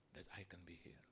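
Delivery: hushed, unvoiced secret; whisper. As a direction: breathe the revelation softly. Thief reveals secret promise. (berbisik penuh rahasia)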